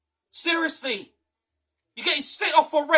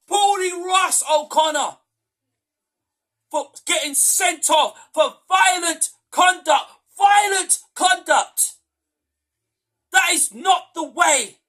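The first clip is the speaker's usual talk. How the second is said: loud, slow, outraged shouting; fed-up fan yelling at the sending-off; angry shout; 3 semitones higher, 4 dB louder, slower than usual. Real, not acted. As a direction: hammer out each word in real outrage. Fan ranting about red card.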